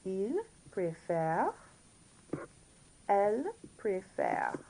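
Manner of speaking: slow, spaced-out French drill; careful model for learners to repeat; all together now. Shown as a demonstration. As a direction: leave gaps between the words. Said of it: "all together now".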